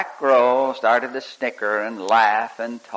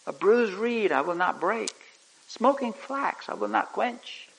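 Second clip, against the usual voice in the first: gentle; 8 semitones higher, 5 dB quieter than usual. Acted. Preacher voicing Jesus' gentleness, soft and hushed. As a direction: lay each word down tenderly like a promise. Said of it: "He was gentle".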